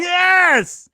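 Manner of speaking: loud, high, emphatic yes. Real, not acted. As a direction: really stress it. Emphatic confirmation of shortage.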